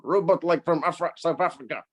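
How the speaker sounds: put-on tentative robotic South African accent. Boxer copies host's robot tip, South African accent. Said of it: "speak like a robot".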